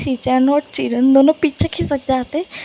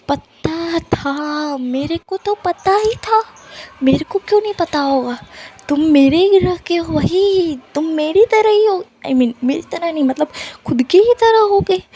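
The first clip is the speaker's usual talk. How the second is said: high mocking voice; 4 semitones higher than usual. Wang ji boasting, high voice.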